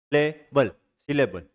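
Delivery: "सि-ले-बल", beat by beat, low; split into syllables. Shown as a demonstration. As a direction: sound out "सिलेबल" in its three syllables. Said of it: "तीन सिलेबल है".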